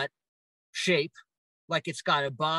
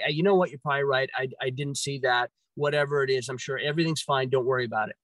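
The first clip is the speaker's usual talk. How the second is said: calming reassurance; 3 semitones lower, faster than usual. Retold or imitated. On the phone to his worried mom, gentle calming voice. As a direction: lower and gentle, talking mom down. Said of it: "I'm gonna calm her down".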